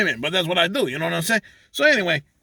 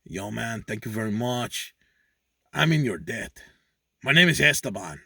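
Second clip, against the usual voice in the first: talking donkey; 5 semitones lower than usual. Acted. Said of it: "He says".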